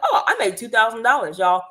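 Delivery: high, laughing brag; laughing with delight. Retold or imitated. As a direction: laugh as you say it. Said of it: "I was like".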